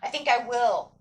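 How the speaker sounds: steady, determined affirmation; affirming self. Retold or imitated. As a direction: say it like you mean it. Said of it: "tell yourself".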